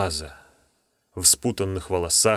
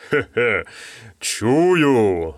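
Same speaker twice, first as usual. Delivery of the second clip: booming monster voice; much slower than usual. Acted. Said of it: "снова загремел голос".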